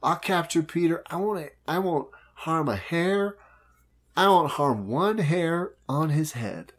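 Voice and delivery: slick pirate captain selling a deal; Hook voice. Retold or imitated. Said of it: "he's like".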